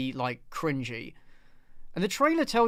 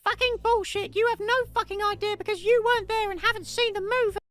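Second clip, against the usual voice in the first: much higher, put-on Australian accent; bad Australian accent. Shown as a demonstration. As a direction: mimic a singer in a mock Australian accent. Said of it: "I can't do an Australian accent".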